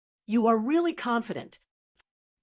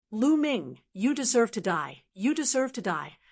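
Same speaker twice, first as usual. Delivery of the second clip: raised, hateful threat; furious roar; 2 semitones higher than usual. Acted. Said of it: "A furious roar".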